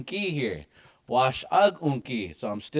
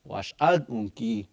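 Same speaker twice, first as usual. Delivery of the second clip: "wash ag unki" said slowly, clearly; slow it down for learners on "wash ag unki"; slow Dakota model; 3 semitones lower, slower than usual. Shown as a demonstration. Teacher giving the Dakota version slowly. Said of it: "Now in Dakota".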